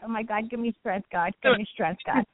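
muttered plea for patience; begging God for strength under breath; praying for patience through teeth. Real, not acted.

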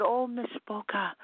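drawn-out, put-on tearful plea; imitated fake tears. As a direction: mimic gushing fake humility. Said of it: "all the fake tears and all the fake humility".

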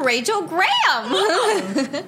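high, slow sing-song name; upward octave. Shown as a demonstration. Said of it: "upward octave".

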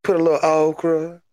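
lightly hammed Cajun promo voice; playful Cajun gimmick; crawdad man. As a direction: list ingredients in a mock Cajun accent. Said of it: "That's my new gimmick".

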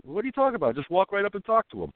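mock the bewildered locals; high quoted disbelief; his people. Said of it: "his people told him".

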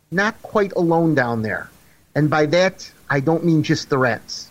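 low, sly villain tease; sneering panto villain. Acted. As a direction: relish the creepy threat. Spooky horror story teaser.

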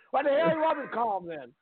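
high, irritated announcer voice; mad Jim Ross. Retold or imitated. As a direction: snap it like a cranky announcer. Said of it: "Jim Ross was so mad".

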